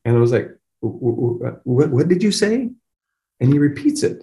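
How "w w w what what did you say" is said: can barely get the question out; a retold stammer of astonishment; stammering disbelief. Stunned father hears son sees.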